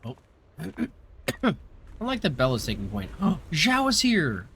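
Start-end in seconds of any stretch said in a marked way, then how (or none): 3.2-4.5 excited gasp. Real, not acted. Spots favourite character in game.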